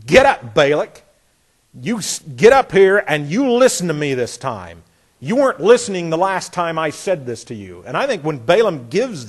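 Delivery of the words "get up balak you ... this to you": a prophet half-yelling at a stubborn king; mild yell. Retold or imitated. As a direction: tell the king off firmly. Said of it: "Balaam is really almost yelling at him".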